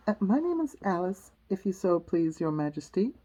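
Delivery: lightly voiced, polite young Alice. Alice answering the Queen, mildly polite. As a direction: answer courteously, near your own voice. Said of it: "Alice replied politely".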